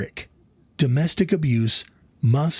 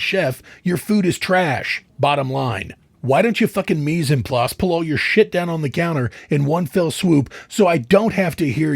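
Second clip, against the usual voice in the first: angry rant. Acted. Acted rant at cooking wife.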